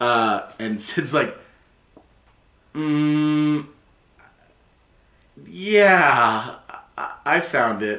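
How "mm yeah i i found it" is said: embarrassed, flustered, bashful tone, pitched higher. Voicing a blushing character admitting they found the note: embarrassed, flustered. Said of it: "gets red squiggles on their cheeks".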